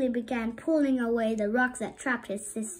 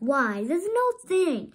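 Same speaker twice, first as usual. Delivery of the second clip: high, fast, louder scoffing crab; dismissive crab; 7 semitones higher, 5 dB louder, faster than usual. A narrator's reading. Crab dismissing fish's monster story, scoffing. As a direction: brush it off quickly. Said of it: "chuckled Sebastian".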